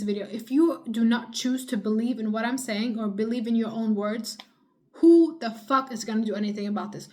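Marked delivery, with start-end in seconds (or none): 5.0-7.1 angry outburst. Real, not acted. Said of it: "Now I'm getting angry".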